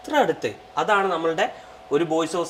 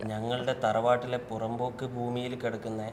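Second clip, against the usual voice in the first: movie dialogue; 3 semitones lower, 4 dB quieter than usual. Retold or imitated. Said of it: "ഇതിൽ എനിക്ക് ഏതൊരു ഫിലിമാ ഓർമ്മ വരുന്നത്".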